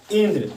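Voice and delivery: इंद्र with the first syllable ई pressed hard; stress on ई. Shown as a demonstration. Teacher showing the class where the stress in इंद्र falls. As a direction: lean on the opening ई of इंद्र. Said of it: "ई पर हम ज़्यादा जोर डालते हैं".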